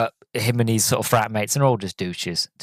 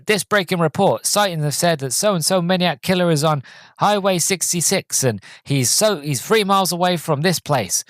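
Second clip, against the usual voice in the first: mock radio announcer; 7 semitones higher than usual. Radio bulletin in film retold.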